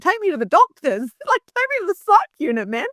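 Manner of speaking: high, breathless mock panic with a laugh; mock hyperventilating plea. Retelling her breakdown to the host, breathless high mock panic. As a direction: replay the frantic plea, half laughing. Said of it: "I'm, I'm hyperventilating".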